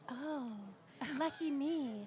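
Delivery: mock cheerful, dripping sarcasm; sarcastic. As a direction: fake delight at a bad date. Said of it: "being like".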